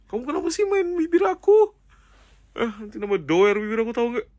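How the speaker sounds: high, loud whiny complaint; whiny loud protest. Real, not acted. Protesting to her partner who plays with her lips, high loud whine.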